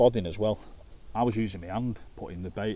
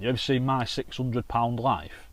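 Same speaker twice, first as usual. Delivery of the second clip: ordinary talk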